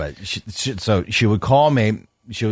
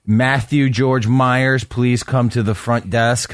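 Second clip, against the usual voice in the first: flat echoey pa page. Retold or imitated. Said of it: "go to the front and say".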